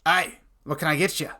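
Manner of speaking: lightly voiced dwarf innkeeper; a hint of dwarf, without animation; dwarf voice, unengaged. Shown as a demonstration. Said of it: "spoke to you in a different voice".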